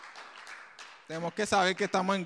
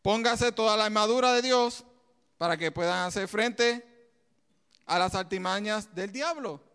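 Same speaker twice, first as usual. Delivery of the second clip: scripture reading; 3 dB louder than usual. Acted. Reading the verse to the congregation, declaiming. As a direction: read out with a preacher's weight. Preacher reads scripture aloud.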